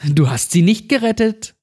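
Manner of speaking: put-on jeering child's taunt, gerettet stretched high; shrill taunt. A narrator's reading. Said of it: "Cindy verhöhnte mich".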